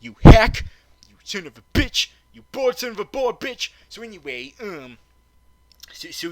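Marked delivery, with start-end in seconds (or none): 0.0-3.7 loud, higher mock rage; mock furious insults. Reviewer insults the villain, loud mock rage. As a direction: yell the insults, hammed-up.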